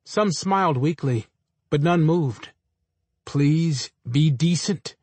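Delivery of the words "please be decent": slow, drawn-out hiss; restrained hissing reproach, very slow; hissed plea. A narrator's reading. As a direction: hiss each word slowly. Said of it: "the attendant hissed".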